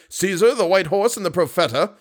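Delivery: high, dismayed question; cried out. A narrator's reading. Acting manager asks after the stolen horse, crying out. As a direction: press the question in disbelief. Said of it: "cried the acting manager".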